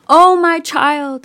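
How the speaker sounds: loud, high grieving wail; crying out in grief. Retold or imitated. Grieving goddess cries out for her husband, wailing. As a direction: let the grief burst out on Oh. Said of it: "she's crying out".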